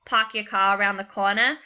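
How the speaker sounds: put-on light Boston accent, the r's dropped: "car" as "cah", "corner" as "cornah". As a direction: imitate a Bostonian, swallowing every r in "Park your car around the corner". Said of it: "when Bostonians say something like".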